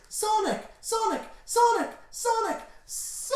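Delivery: very high falsetto screams of grief; hammed-up anguished heroine; Blaze. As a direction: cry the name over and over, squealing. Blaze cries over dead Sonic.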